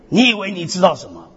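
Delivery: normal talking voice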